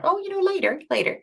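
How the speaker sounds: high, dismissive put-off parent; parent brushing off kids. Retold or imitated. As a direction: wave the kids off, later. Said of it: "I sound like a parent driving past a fast food place".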